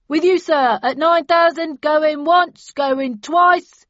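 loud, slow auctioneer's pitch. A narrator's reading. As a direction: sell the lot to the room. Auctioneer closing sale.

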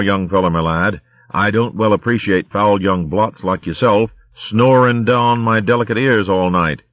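high blustering military hare; indignant posh-soldier bluster; pompous old hare. Acted.

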